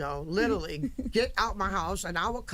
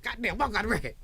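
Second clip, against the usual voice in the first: excited; 4 semitones higher, much faster than usual. Retold or imitated. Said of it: "I said".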